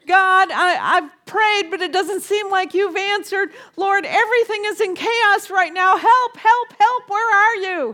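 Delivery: a frantic plea to God; panicky prayer. Retold or imitated. Praying to God when life feels out of control, desperate. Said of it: "this panicky feeling of life is out of control".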